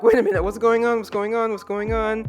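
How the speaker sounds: retold panic, bursting out loud then easing; mock crisis panic. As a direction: act out a flustered meltdown. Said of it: "like, a crisis".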